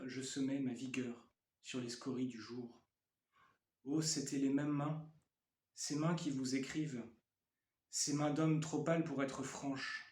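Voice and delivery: measured poem recitation with pauses between phrases; poetry reading. Acted. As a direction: read it as verse, line by line. Reads own poem aloud.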